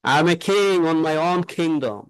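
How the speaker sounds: very slow, every k puffed; slow English demo sentence. Shown as a demonstration. Teacher models king in a slow demo sentence. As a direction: draw out each word, aspirating king. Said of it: "কিং".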